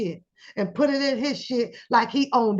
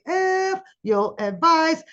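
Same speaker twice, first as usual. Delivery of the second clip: slow, higher F your advice; mock dismissive; 5 semitones higher, slower than usual. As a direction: drag it out with scorn. Imitating an ungrateful friend.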